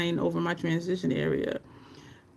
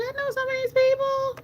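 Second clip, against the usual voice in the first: much higher, lightly put-on chatter voice; mock chatter. Imitating viewers in chat, higher and playful. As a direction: act out chat viewers recognizing names. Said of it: "y'all was looking in the chat like".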